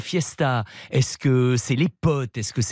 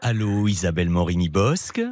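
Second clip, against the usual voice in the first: voice from beyond the grave; 3 semitones lower than usual. Acted. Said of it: "prenez pas cette voix d'outre-tombe".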